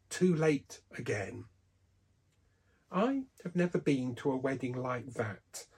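ordinary delivery

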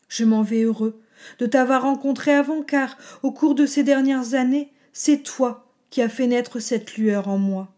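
resolute old dragon, lightly voiced; a calm, decided farewell.

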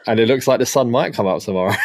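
fast, shouted football chairman voice; Steve Parish impression. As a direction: bellow it out fast like a chairman's boast. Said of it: "mimic a famous Steve Parish quote".

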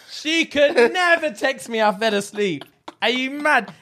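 high, slow girly mock voice; mocking girl voice. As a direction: drag out her excuse in a high voice. Mocking a girl's excuse text.

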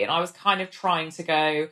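usual speaking voice

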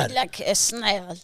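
a shaky stab at a French accent. Shown as a demonstration. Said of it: "see how good your French is".

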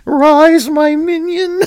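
high, loud put-on master's voice; mock sinister summons. Riffing on the Undertaker rise, mock sinister summons. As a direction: summon a minion in mock-horror style.

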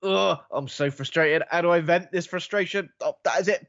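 mock frustration. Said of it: "he starts blowing raspberries at them in frustration".

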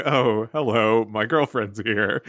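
put-on slow, low, awkward boyfriend voice. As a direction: drawl it out like a caught boyfriend. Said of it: "he's like".

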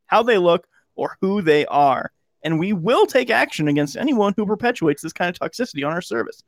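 measured read of a corporate statement; formal statement reading. Shown as a demonstration. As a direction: read it like an official announcement. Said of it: "read it in normal voice".

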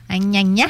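"gna gna" with a palatal ny at the start; gna sound. Shown as a demonstration. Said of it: "ça devient un gna".

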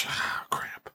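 a whispered mock groan of defeat; whispered ah crap of letdown; whispered disappointment. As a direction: breathe it out like you just lost. Losing the radio call-in.

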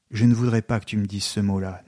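ordinary delivery

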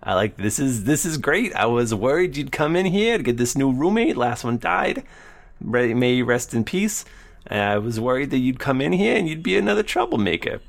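lightly voiced weaselly cellmate; a hint of a sly lizard prisoner; feral wasteland raider. Dragonborn cellmate talks.

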